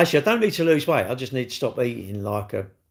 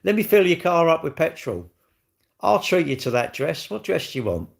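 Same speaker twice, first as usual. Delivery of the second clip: mock doting husband; 5 semitones higher than usual. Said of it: "You should be saying".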